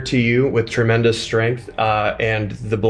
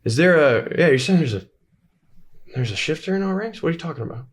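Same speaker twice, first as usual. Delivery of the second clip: incredulous villain; 6 semitones higher, faster than usual. Acted. GM voices Tybor questioning.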